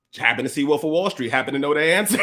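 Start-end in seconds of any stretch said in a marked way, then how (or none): 1.3-2.2 chuckling through the words; laughing. Real, not acted. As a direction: laugh as you say it. Laughing while telling the story.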